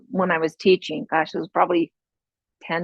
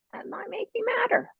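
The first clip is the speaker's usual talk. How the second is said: whisper; 6 dB quieter than usual. Real, not acted. Unvoiced aside.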